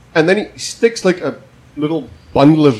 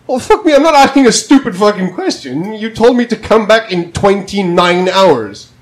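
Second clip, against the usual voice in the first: higher-pitched mock outrage; retold exasperated rant at the nurse; incredulous rant; 6 semitones higher than usual. Ranting at the nurse.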